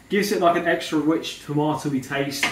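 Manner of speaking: "rich" said with a w, like witch; "rich" comes out as "wich", r turned to w; says w for r. Real, not acted. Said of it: "I'm saying witch instead of rich".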